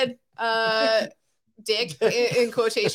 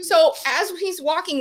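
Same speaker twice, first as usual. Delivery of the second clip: ordinary talk, nothing marked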